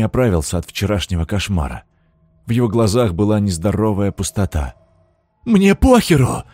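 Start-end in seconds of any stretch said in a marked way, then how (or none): 5.4-6.4 high, loud, slow hysterical yell; hysterical scream. A narrator's reading. Man burning at the stake screams hysterically at the lord. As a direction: howl it, losing his mind. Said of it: "уже истерично вопил Хлыст".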